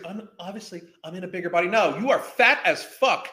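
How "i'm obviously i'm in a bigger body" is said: mocking quote. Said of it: "I can't stand that phrase".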